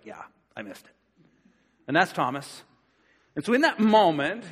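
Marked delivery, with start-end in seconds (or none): 0.0-0.9 low, much softer, dejected mumble; deflated. Retold or imitated. Thomas left out by the disciples, low and deflated. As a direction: sink into disappointment. Left out while friends rave.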